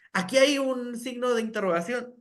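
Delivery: "hay" agudo, tono de pregunta marcado; entonación exagerada. Shown as a demonstration. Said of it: "lo que hacemos es exagerar". (maestra modela la entonación de pregunta)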